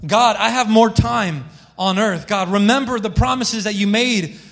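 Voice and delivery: mild acted pleading, pitch climbing toward the end. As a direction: plead with a touch of urgency. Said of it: "He started pleading with God".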